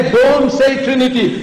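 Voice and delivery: firm, high warning; militant command. Shown as a demonstration. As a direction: command it with a lion's conviction. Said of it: "When you tell somebody".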